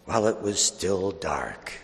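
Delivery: measured scripture proclamation with long pauses; solemn Gospel reading. Acted. Priest proclaiming the Easter Gospel to the congregation, solemn and measured. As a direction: read it out phrase by phrase, leaving space.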